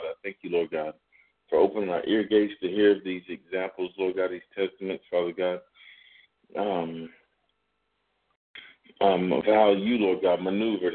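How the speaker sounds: earnest praying voice; prayer. Acted. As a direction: pray aloud, steady and reverent. Leads a closing prayer.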